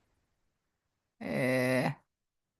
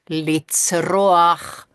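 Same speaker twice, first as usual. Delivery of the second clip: loud demo; 5 dB louder than usual. Shown as a demonstration. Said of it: "huutaa kirkua".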